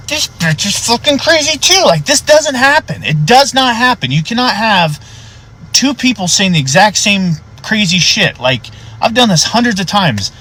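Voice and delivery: high, slow, emphatic insistence; exasperated disbelief. Retold or imitated. Deputy reacting to two people's same delusion, high exasperated disbelief. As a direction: spell out the impossibility in a strained high voice. Deputy realizes wife is crazy too.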